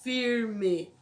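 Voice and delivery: "firme" with the R pulled and curled; local R in firme. Shown as a demonstration. Teacher repeating her own region's way, "firme" with curled R. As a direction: curl the tongue on the R of "firme". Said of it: "Igual eu falo agora".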